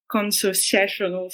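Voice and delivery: slow, careful word in a French accent. Real, not acted. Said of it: "sorry for the French accent".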